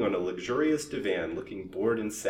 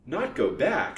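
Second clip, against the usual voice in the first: high, loud incredulous question; put-on surprise, pitched up; affected astonishment; 7 semitones higher, 5 dB louder, slower than usual. A narrator's reading. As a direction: echo it back as if astonished. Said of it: "affecting extreme astonishment".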